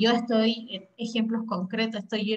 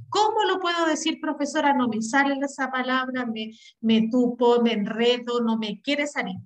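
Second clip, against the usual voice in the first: tongue-tied student. Acted. Student appealing to the teacher over a hard word, flustered. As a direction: act out a student stuck on a word. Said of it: "Si hay palabras difíciles que voy a decir".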